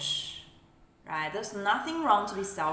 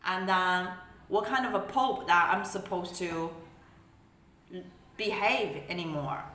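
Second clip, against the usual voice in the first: angry boss rant. Retold or imitated. Controlling elder berating a disobedient child, outraged. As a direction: act out an indignant authority figure. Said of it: "they're like".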